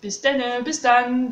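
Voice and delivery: Bis denne in Baden dialect, then standard bis dann; Baden dialect goodbye. Shown as a demonstration. Teacher demonstrating the Baden dialect goodbye. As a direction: say it like someone near Stuttgart. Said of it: "en Badisch, on dit".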